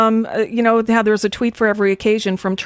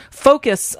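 "Focus" punched higher, on its own; all-caps emphasis; 5 semitones higher than usual. Retold or imitated. Co-host reading out a president's tweet, "Focus" emphasized. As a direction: hit "Focus" as a one-word command. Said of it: "all in caps".

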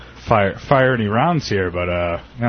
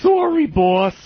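laughing mock employee; 14 semitones higher, slower than usual.

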